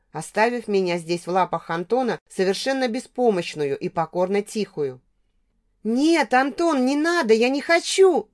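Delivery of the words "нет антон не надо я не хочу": squeaking like a mouse. A narrator's reading. Pinned heroine squeaks to her drunk ex, high-pitched plea. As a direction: squeak like a small hoarse mouse. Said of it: "пищала я, как сиплая мышка".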